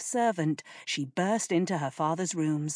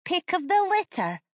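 put-on bargaining boy; 13 semitones higher, 3 dB louder than usual. A narrator's reading.

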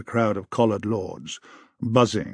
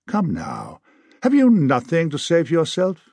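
coaxing; 6 semitones higher, 4 dB louder than usual. A narrator's reading. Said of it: "Her tone was coaxing".

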